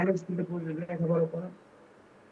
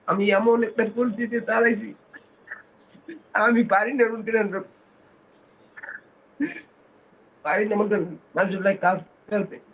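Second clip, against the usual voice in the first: real tearful breakdown; 3 semitones higher than usual. Real, not acted. Helpless father pleading to the leader online, breaking into tears. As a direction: break down telling of your helplessness. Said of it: "একেবারে হাউমাউ করে কেঁদে ওঠেন".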